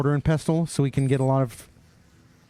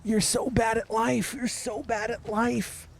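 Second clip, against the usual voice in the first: high, slow teasing sing-song; mocking taunt; 8 semitones higher, 6 dB quieter, slower than usual. Streamer teasing Randy about a bad pick, slow high mocking sing-song. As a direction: drag it out to needle Randy.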